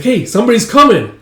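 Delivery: high, loud alert; acted excited holler; lookout's call. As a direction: call out a warning to comrades. Lookout calls to comrades.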